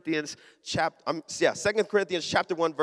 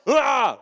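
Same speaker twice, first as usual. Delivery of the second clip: loud effortful "ah"; flexing grunt; 4 semitones higher, 5 dB louder than usual. Retold or imitated. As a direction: imitate bracing every muscle. Acts out flexing against wave.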